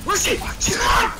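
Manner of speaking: high-pitched, urgent shout; agitated high yell; frantic call-out. Real, not acted. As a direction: call out in alarm to teammates. Calling out vanished enemy.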